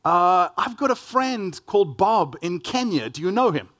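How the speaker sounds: lightly mocking an eager, clueless stranger. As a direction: imitate someone cheerfully clueless about Africa. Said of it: "the conversation after that ensues".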